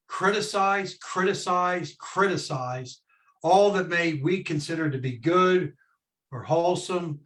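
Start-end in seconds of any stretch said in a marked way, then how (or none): 0.1-3.0 "Criticize" three times, each set apart, stepping down to a slow last one; emphatic repetition. Real, not acted. Co-host stressing to James what critical means, emphatic repetition. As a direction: hammer each "Criticize" as its own beat, dropping on the last. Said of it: "emphasis on the word critical".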